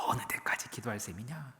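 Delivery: low, hushed needling question; taunting whisper. Acted. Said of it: "이 속삭임은".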